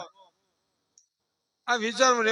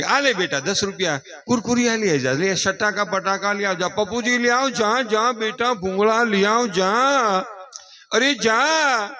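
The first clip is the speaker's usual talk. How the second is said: dismissive mother. Retold or imitated. Mother brushing off hungry child.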